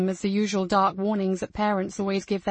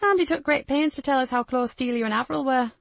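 female character voice; 5 semitones higher than usual. Acted. Kat continues.

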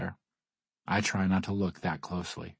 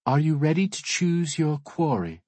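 raised, high-pitched announcement to a room; bright-pitched hostess rallying the guests; calling out; 6 semitones higher, 4 dB louder than usual. Acted. Hostess inviting hunters to choose quarry, calling out.

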